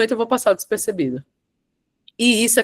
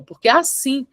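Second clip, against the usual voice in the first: "assim" raised and drawn out, then a pause; stress on ASSIM; 4 semitones higher than usual. Shown as a demonstration. Coach repeating the emphasised word for students, stress on "assim". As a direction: lift and stretch "assim", setting it apart. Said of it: "olha o assim de novo".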